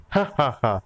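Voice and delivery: teasing "ha ha ha" laugh. Acted. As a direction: giggle at a funny name. Girl laughs at his name.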